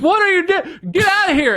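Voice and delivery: very high-pitched comic yelling; mock outraged shout. Homeowner catching someone mid-poop on the lawn, mock outraged shout. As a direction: play a scandalised homeowner, voice leaping high.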